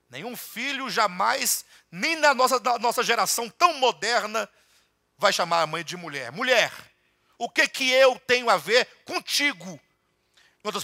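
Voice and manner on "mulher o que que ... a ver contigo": emphatic rebuke. Retold or imitated. Jesus voiced, emphatic.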